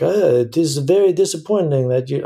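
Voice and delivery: lightly voiced disapproving European in a French accent; jokey hint of a French accent; mock French accent. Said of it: "I'm doing a French accent".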